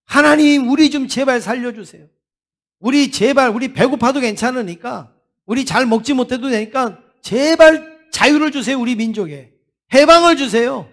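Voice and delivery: preacher voicing a desperate clamour; acted outcry. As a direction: cry out like a people begging for rescue. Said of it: "아우성을 쳤어요".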